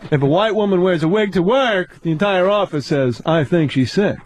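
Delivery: measured, incredulous stand-up setup, lightly imitated; mock-puzzled observational comic, pausing between phrases; Jerry Seinfeld. Comic riffs on socks and shoes, mock stand-up delivery. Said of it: "Seinfeld, what's the deal".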